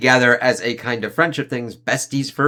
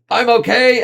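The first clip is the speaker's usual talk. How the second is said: strained insisting; 12 semitones higher, 7 dB louder than usual. Retold or imitated. Injured hobgoblin insisting he's fine.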